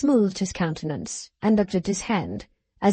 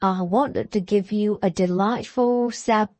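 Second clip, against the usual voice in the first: "surprise" allungata e marcata; surprise stretched. A narrator's reading. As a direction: lean long on "surprise". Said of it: "elongated and emphasized the word surprise".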